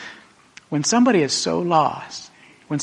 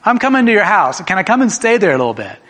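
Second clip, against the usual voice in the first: calling out warmly; 6 semitones higher, 6 dB louder than usual. Acted. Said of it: "He says".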